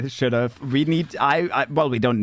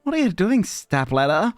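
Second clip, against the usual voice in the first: much higher, mock-scolding squeal; mock outrage; 11 semitones higher than usual. Real, not acted. Streamer scolds pet Step Ladder for eating soap, much higher. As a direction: scold the soap thief in a high voice.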